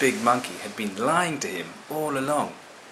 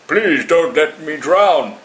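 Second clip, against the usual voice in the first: slow, higher, louder desperate plea; begging monkey; 6 semitones higher, 10 dB louder, slower than usual. Acted. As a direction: beg for your life, drowning. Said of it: "begged the big monkey".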